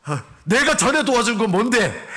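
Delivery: hammed-up husband picking a fight; quarrelsome husband. Husband arguing with wife about past help, mock angry. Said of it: "이러면서 막 또 싸우는 거예요".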